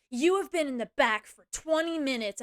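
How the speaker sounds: mild mock telling-off; retold yelling. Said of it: "getting in my face and yelling at me".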